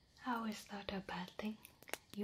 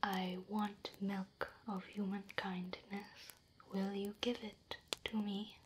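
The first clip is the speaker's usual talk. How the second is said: nicer. Shown as a demonstration.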